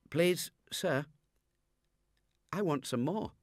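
put-on high, timid child's plea; small boy. Hungry orphan begging the master, high and timid. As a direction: ask meekly like a starving boy. Oliver voiced in the reading.

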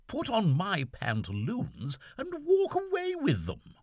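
lightly voiced young gentleman puzzled; Seaforth's voice. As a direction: fret aloud as the lieutenant.

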